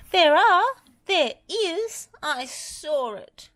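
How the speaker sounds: high, loud frightened insisting; insistent scared Lofty. A narrator's reading. Lofty insists to Wendy he really saw the dragon, scared. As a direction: plead to be believed.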